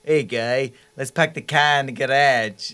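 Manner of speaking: a light, half-hearted Massachusetts accent. Shown as a demonstration. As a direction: try a Boston accent for a laugh. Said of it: "Massachusetts accent".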